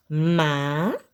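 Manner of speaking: MAJESTADE split into drawn-out, separate syllables. Shown as a demonstration. Teacher separating the word for pupils, syllable by syllable. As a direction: say MAJESTADE very slowly in pieces, ma, jes, ta, de. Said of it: "Vamos separar?".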